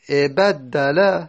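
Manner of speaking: ابدل drawn out very slowly; slow teaching demo. Shown as a demonstration. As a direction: sound out ابدل step by step. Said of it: "teacher spells out form".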